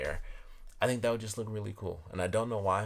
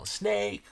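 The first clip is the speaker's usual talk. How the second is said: Snake with a long stretched vowel; drawn-out SNAKE; 2 semitones higher, 5 dB louder than usual. Acted. Reading the many A's printed on the glass, drawn-out "Snake". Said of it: "like, twelve A's in here".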